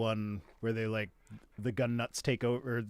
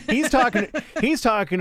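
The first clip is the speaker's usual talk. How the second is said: laughing through the words, pitched up; 9 semitones higher, 7 dB louder than usual. Real, not acted. Exasperated at Kevin Sorbo's complaint, laughing. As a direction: break into a laugh as you start. Laughs while starting to explain.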